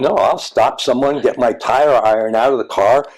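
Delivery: retelling a student's road rage with mock anger; outraged. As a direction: play her fury at the driver, half-mocking. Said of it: "I could see her getting outraged".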